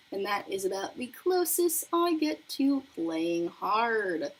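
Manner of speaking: slow, lightly voiced newscaster sign-off. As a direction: stretch it out like a TV reporter wrapping up. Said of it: "get into a newscaster voice".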